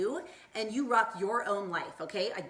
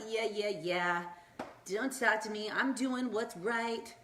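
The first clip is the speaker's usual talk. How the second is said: sassy brush-off; slower than usual. Retold or imitated. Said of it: "I get all sassy and I have my hand up".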